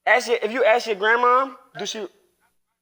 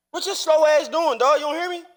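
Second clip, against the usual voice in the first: calling out; 6 semitones higher than usual. Real, not acted. Calling out to ignoring son.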